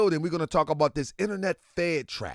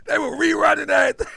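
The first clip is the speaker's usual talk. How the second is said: excited fast talk; 7 semitones higher, 5 dB louder, faster than usual. Real, not acted. Hyped fast recollection.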